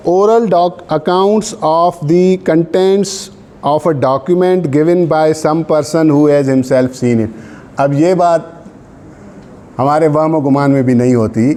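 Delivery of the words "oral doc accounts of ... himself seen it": reads the law out word by word, very slow; measured legal dictation; slow dictation reading. Acted. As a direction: dictate so students can write it down. Dictating statute text to class.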